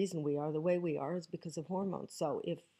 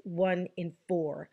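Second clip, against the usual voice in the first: one in four spelled out slowly and firmly; slow emphatic; 4 dB louder, slower than usual. Shown as a demonstration. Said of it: "Read my lips".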